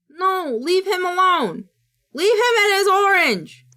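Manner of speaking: high, pleading plea; high-pitched cutesy defence; mock pleading. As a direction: beg them to leave him alone. Pleading on behalf of animal.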